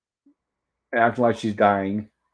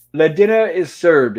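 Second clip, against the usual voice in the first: slow, higher mock-French announcement; bad French accent; 4 semitones higher, 7 dB louder, slower than usual. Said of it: "in a bad French accent".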